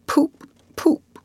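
lightly voiced dazed toad murmur; a hint of a toad in a trance; faint murmur. A narrator's reading. Toad murmuring after the motor car, faintly dazed. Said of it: "he faintly murmured".

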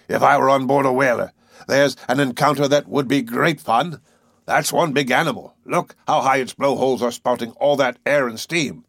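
a touch of excited frustration in a whaler's voice; lightly voiced eager harpooner. Harpooner longing to hunt the whale, lightly voiced and eager. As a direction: lightly play a restless whale hunter.

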